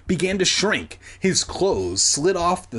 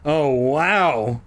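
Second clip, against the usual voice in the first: drawn-out mild groan; queasy, acted moan; 3 dB louder than usual. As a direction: groan it as if sick to the stomach. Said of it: "she groaned".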